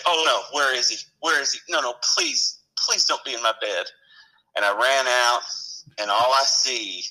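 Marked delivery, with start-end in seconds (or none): 0.1-3.9 higher, rising pleading dread; mock panic. Fireman to himself about the prank, higher, pleading mock dread. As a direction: beg that it isn't true, hammed-up. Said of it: "I said".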